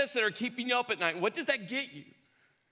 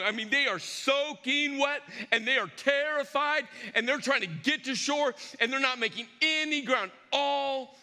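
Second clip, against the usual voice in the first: building sermon intensity; 3 semitones higher than usual. A narrator's reading. Preacher to congregation, building the storm with force. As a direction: preach the storm hard, pressing on every line.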